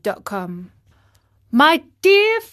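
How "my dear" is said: high, loud and joyful; joyful cry. A narrator's reading. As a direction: cry out with relief at being saved. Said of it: "cried the marionette".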